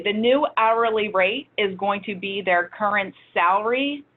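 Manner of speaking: slow, careful formula read-out; measured pace for a complicated explanation; slowly, deliberately. Real, not acted. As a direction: lay out each step of the calculation slowly. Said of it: "so I'll say this slowly".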